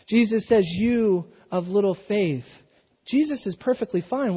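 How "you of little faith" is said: gentle rebuke. Acted. Jesus lifting Peter from the water, tender and slow.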